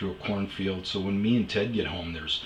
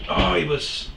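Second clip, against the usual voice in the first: friend explaining; 9 semitones higher, 7 dB louder than usual. Retold or imitated. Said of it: "And he goes".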